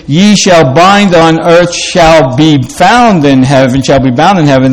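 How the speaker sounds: smooth, natural scripture reading; flowing reading. Shown as a demonstration. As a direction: let the verse flow like everyday speech. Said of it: "that sounds more flowing".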